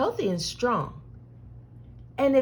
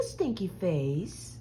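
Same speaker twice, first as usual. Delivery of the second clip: soft whisper; 5 semitones lower, 7 dB quieter, slower than usual. Acted. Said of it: "whisper in your ear".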